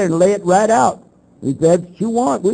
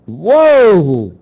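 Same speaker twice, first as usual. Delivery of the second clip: surprised whoa; 5 dB louder than usual. Real, not acted. Set up on live radio.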